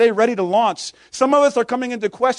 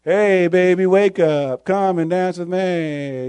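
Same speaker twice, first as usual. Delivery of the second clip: imitating the alarm clock; 5 semitones lower, slower than usual. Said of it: "I had this alarm clock that said".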